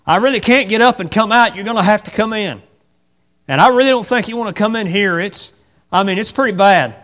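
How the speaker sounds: crippled man's reply. Acted. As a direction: warn him off.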